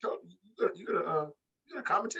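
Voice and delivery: high, halting mock commentator. Imitating an announcer prodding his distracted partner, hesitant high voice. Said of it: "And J R's gonna".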